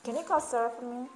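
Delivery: quick, run-together American English demo; "Sarah for me" slurred quickly into one chunk; fast American speech. Shown as a demonstration. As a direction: rattle it off like a fast-talking American. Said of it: "des Américains qui vont parler très vite".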